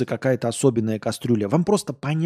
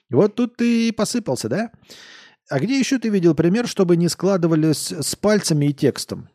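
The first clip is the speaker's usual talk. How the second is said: high, gloating tipsy jab; gloating drunk; 6 semitones higher, 3 dB louder than usual. Acted. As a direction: catch him out with glee. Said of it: "Он пьяно посмотрел".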